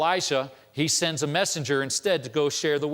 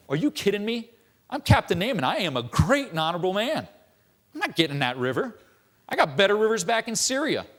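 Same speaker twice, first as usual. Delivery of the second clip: indignant outburst; 4 semitones higher than usual. Retold or imitated. Naaman throws a fit, disgusted.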